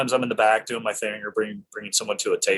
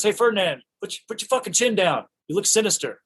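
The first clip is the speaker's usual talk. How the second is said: Fincher imitated; 10 semitones higher than usual. Fincher directing actor.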